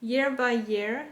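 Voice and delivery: reading English with a French accent; halting, French-accented English. Real, not acted. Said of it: "mon accent anglais, bof".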